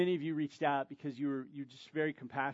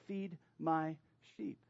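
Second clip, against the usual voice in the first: gentle; slower than usual. Acted. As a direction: lay the charge down gently, slowly. Jesus gently commissions Peter.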